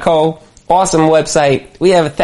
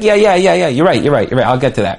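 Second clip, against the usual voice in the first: pushing them off; 2 semitones lower, faster than usual. Retold or imitated. Fobbing off a follow-up, dismissive agreement. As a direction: placate and move on. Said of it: "you're just pushing them off".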